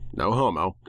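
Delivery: ordinary delivery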